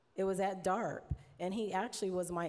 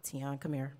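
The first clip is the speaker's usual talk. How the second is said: a hint of a lower voice calling over the talkback; lightly voiced engineer; 5 semitones lower than usual. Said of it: "he would just push the button".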